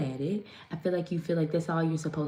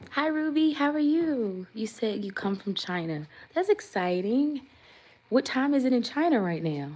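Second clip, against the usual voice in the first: excited greeting; 6 semitones higher than usual. Real, not acted. Greeting a viewer who joined.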